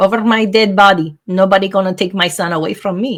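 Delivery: put-on thick Spanish accent, laid on heavily. Quoting what their mother used to say, in a thick Spanish accent. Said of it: "in her thick Spanish accent".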